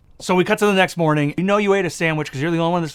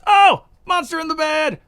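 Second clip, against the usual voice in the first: mock scared kid; 10 semitones higher than usual. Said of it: "He goes".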